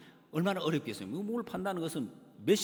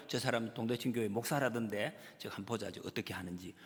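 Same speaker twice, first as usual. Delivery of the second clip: onlookers' muttering; 7 semitones lower, 6 dB quieter than usual. Retold or imitated. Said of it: "이러고 있다".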